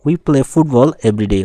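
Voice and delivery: We hit hard, slow and loud; stress on We. Shown as a demonstration. Teacher drilling students with stress on We. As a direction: open by punching We. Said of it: "এভাবে আমরা পড়বো".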